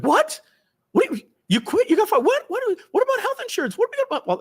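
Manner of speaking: very high mock-panicked voice; panicked wife. Wife hearing on the phone that her husband quit, shrill mock panic. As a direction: imitate a wife firing off shocked questions. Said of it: "She's like".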